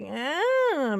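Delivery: drawn-out "eh", rising then falling; squirming, wavering groan of doubt; uneasy "eh". Acted. Voices her uneasy reaction.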